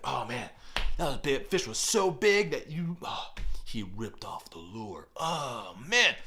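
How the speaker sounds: mock dismay. Acted dismay over lost fish.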